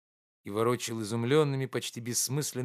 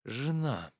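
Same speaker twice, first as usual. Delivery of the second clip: calm. A narrator's reading. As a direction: answer calmly to the shocked friend. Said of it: "спокойно произнёс Обломов". (спокойно)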